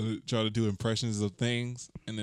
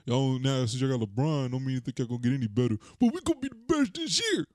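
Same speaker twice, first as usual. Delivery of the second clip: high, excited trash talk; hyped Laker fan; 11 semitones higher than usual. Retold or imitated. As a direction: brag like a die-hard fan. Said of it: "He sound like Darren".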